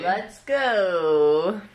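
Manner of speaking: loud hype cheer; cheering shout. Real, not acted. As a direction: yell it to pump everyone up. Cheering after championship call.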